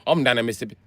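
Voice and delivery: run-together "down in Mississippi"; fast talking. Retold or imitated. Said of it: "they start talking fast".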